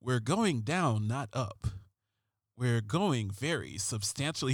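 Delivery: a hint of a brooding crime-show cop; understated TV detective read; David Caruso voice. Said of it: "I'm gonna use a David Caruso voice".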